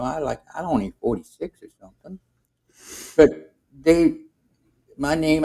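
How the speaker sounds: high complaining Gus voice; Gullible Gus voice. Retold or imitated. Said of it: "And Gus says to me".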